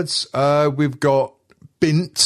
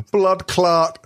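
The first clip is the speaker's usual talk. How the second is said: slow, raised mock Jamaican accent; put-on Jamaican accent; 4 semitones higher, slower than usual. Host reading out swear words, attempting a Jamaican accent. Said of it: "tried to do the accent".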